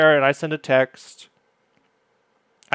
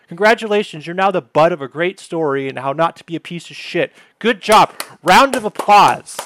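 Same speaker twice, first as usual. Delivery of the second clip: loud, higher mock applause; sarcastic congratulations; 3 semitones higher, 4 dB louder than usual. Real, not acted. Ribbing the cohost about the ghosting story, loud and sarcastic. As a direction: hail her like a winner, dripping with irony.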